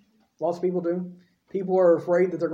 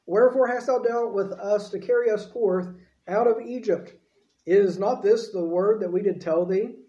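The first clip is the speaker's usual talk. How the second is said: raised, measured Bible reading; scripture reading. Acted. Preacher reading Exodus aloud to his church, raised and measured. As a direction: read the verse out to the congregation.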